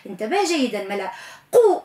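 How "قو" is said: قو sounded high and heavy; قو clearly articulated with emphasis; emphatic qu. Shown as a demonstration. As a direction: give قو its full depth from the throat. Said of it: "اعتني بيها".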